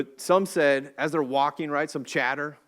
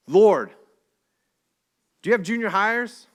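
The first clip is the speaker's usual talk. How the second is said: higher and louder throughout, an exasperated rant; protesting loudly; 6 semitones higher, 9 dB louder than usual. Retold or imitated. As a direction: protest like a fed-up parent of teenage boys.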